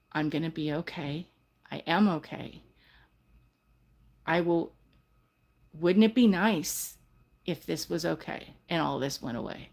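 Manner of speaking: quiet, calm self-reassurance; soft mantra. Shown as a demonstration. To a guest, a soft reassuring morning mantra. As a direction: speak it softly like a morning mantra. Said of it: "you're gonna hear me say".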